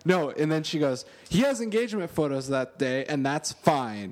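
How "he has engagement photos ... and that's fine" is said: mock fiancee. Fiancee voiced again, retold.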